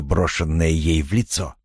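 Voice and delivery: plain reading voice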